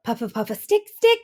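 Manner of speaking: puff, then jab out the sticks; hedgehog's prickly cry. A narrator's reading.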